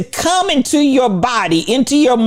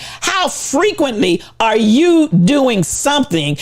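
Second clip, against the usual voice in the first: slow, pointed question; slower than usual. Shown as a demonstration. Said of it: "I'm gonna ask it again".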